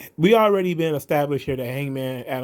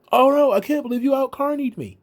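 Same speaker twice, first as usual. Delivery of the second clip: higher, hammed-up "Oh no" with no real alarm; imitating Matt Hardy's limp surprise, pitched up; mock calm Matt Hardy; 11 semitones higher, 3 dB louder than usual. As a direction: pitch it up and sound barely bothered. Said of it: "There was no shock. There was no real surprise".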